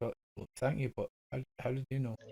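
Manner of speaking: soft, sad, pained, hurt voice. Voicing a character who receives condolences for his dog: sad and pained. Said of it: "Sad and pained again, and he says".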